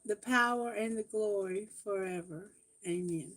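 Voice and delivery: measured recited prayer, fading at the end. Acted. Tarot reader leading viewers in the Lord's Prayer. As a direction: pray it steadily, softening toward amen.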